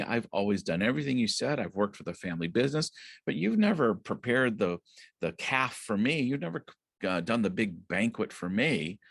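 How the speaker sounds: resentful complaint. Retold or imitated. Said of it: "he's just really angry".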